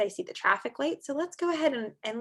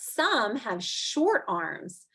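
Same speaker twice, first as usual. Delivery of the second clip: slow, drawn-out read-aloud; reading to children; much slower than usual. Acted. Teacher reading a snow book to kids, slow and clear. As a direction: read each line slowly to little listeners.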